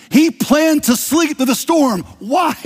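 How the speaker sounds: high, loud, slow proclamation; preacher building to the punchline of the sermon; preaching climax. Real, not acted. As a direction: ring it out to the congregation. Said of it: "preaching climax".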